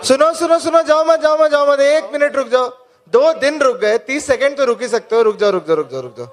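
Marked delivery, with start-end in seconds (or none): 0.1-2.7 urgent calling out. Real, not acted. Calling a leaving crowd back.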